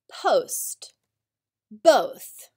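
whispered list words. Shown as a demonstration. Teacher reads word list to class, in a whisper. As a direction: breathe the words without voice.

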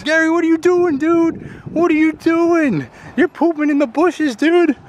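high-pitched, disbelieving call; incredulous outcry. Real, not acted. Owner catching dog pooping in bushes, high incredulous outcry. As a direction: cry out in comic disbelief, high and insistent.

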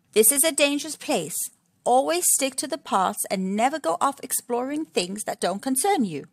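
a hint of a warning papa warthog; Mister Warthog. Mister Warthog warns his family.

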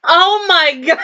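high, wailing cry of disbelief; real distress. Real, not acted. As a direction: let it break into a sob. Upset reaction to deaths on screen.

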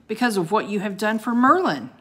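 loud, fast bellow. Acted. Ice wizard bellows at Jack about Merlin. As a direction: boom it out at the children. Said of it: "bellowed the ice wizard".

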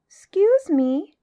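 high, slow, drawn-out polite little elephant; most polite. A narrator's reading. Elephant's child approaches the crocodile, most politely. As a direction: call out a very polite, high "excuse me". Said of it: "said the elephant's child most politely".

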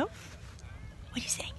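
slow unvoiced whisper. Real, not acted. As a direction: whisper secretly to the bird. Cooing to the bird.

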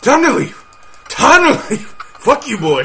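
loud, high yell to get away; panicked shout. Real, not acted. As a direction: shout it high, desperate to escape. Fleeing the threatening driver.

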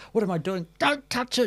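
high-pitched retold outcry; imitated scolding. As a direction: act out an alarmed telling-off. Retold nurse scolding the actress.

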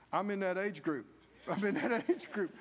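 laughing through the words; amused realization. Retold or imitated. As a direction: chuckle as it dawns on you. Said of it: "Caleb and Joshua were thinking".

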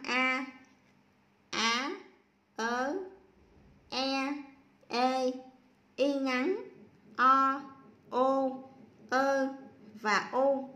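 put-on each vowel said on its own with a pause after it, for children to repeat; teacher reads out the vowels one by one for the class; reading letters aloud. Shown as a demonstration. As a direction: call out each vowel clearly, one beat apart. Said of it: "Bây giờ cô sẽ đọc nha".

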